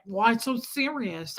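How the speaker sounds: slow, drawn-out Brooklyn taunt; Brooklyn accent. Retold or imitated. Imitating the rude passenger's jeer, slow Brooklyn accent. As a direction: needle them in mock Brooklyn accent. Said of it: "I did the Brooklyn accent".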